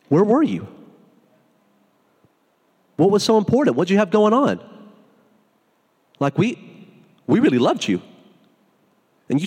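hurt, accusing questions; confronting Jesus. Acted. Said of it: "Martha walks up to Jesus and says".

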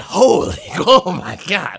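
high mock shout breaking into laughter; astonished outburst. Host recalling own reaction, laughing mock shout. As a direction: cry out, then crack up.

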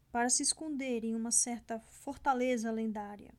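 steady audiobook reading voice; story narration. A narrator's reading. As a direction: read the chapter like an audiobook. Reads audiobook chapter aloud.

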